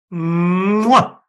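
smacking kiss noise; kiss sound. Shown as a demonstration. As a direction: blow a quick loud kiss. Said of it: "We gotta make the kiss sound".

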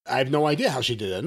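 ordinary delivery

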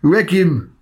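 put-on slow, high Geordie accent, drawn out. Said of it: "You can't say regime in a Geordie accent".

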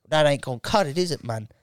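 lightly put-on London Jamaican voice; casual challenge in Jamaican English; imitated Jamaican-London geezer; Jamaican English accent. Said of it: "that really cool accent".

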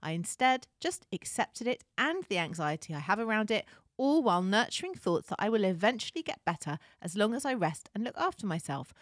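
put-on light Texan accent reading a letter. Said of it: "Are you gonna do the whole thing in a Texan accent?".

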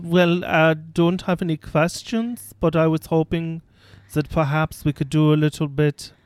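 put-on Austrian accent. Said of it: "the Austrian accent".

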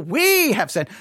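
"we" stretched out and leaned on; long, emphatic "we"; stress on WE. Acted. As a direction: hit "we" hard to include the speaker. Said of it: "Not just they".

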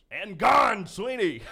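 high, tight nervous squeak on the call. Retold or imitated. Rookie broadcaster nervously calling his first home run, high squeak. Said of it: "All I could muster was".

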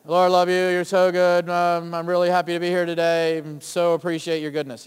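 low, dull croak with no joy in it; croaking worship. Pretend. Preacher mocks a joyless worshipper, low croak. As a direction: croak the praise out like it's a chore. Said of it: "That's not joyful".

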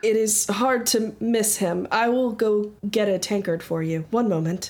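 lightly voiced, courteous tiefling; polite young barkeeper. Barkeeper fetching a tankard for a customer, lightly voiced and polite. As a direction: serve the customer with careful politeness.

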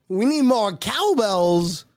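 N=Christopher Walken/public; Christopher Walken impression. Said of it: "my Christopher Walken".

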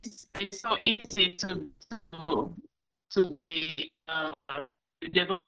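breaking up on a bad call; bad connection. Real, not acted. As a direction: voice dropping out over the line. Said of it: "you're cutting out".

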